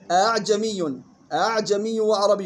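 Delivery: أعجمي opened on an eased second hamza; softened second hamza. Shown as a demonstration. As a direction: glide أعجمي's second hamza halfway to alif. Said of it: "تصير الهمزة الثانية بين الهمزة والألف". (أعجمي بتسهيل الهمزة الثانية بين الهمزة والألف)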